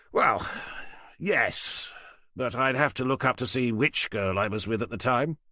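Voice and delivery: lightly voiced smug older man. Falcon's held voice.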